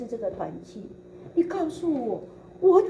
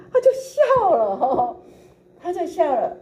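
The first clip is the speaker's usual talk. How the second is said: higher, laughing through the words; laughing while telling; 8 semitones higher, 7 dB louder, slower than usual. Real, not acted. Telling how his teacher laughed: laughing along. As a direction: let the laugh spill into the words.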